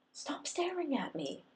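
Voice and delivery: high, slow hushed plea; hushed embarrassed plea. A narrator's reading. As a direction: whisper it, flustered.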